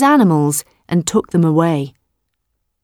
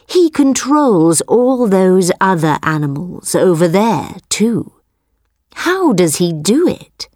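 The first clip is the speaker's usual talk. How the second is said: curious tiger voice. Acted. Tiger questions the buffalo.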